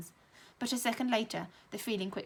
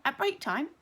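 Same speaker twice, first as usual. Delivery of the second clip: shouted; 7 semitones higher, 5 dB louder than usual. A narrator's reading. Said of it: "shouted Tom".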